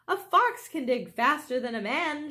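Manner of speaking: rally the family; eager shout. Acted. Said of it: "shouted Mister Fox".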